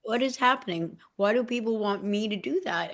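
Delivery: bewildered self-talk. Retold or imitated. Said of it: "And I'm like".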